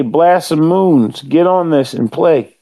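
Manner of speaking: slow, solemn mock proclamation; official verdict. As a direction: declare it slowly like an official ruling. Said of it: "I officially say".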